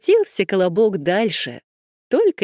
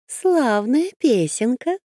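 sly fox voice; 4 semitones higher, slower than usual. Acted. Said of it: "сказала лиса".

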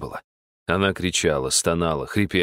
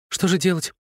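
растерянно; 11 semitones higher than usual. Acted. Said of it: "растерялась и расстроилась".

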